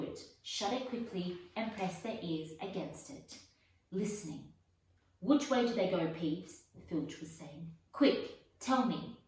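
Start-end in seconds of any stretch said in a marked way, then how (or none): 5.2-9.2 urgent demand. Acted. Filch demanding Peeves answer.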